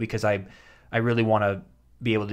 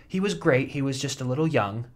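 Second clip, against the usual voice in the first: casting director voice; 4 semitones higher than usual. Retold or imitated. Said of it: "They're just like".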